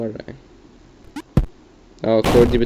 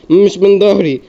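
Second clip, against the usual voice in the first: each repeat rising higher and louder; building panic; 7 semitones higher, 5 dB louder, slower than usual. Real, not acted. Gamer yelling at the game, panic building. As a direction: get more frantic with every repeat.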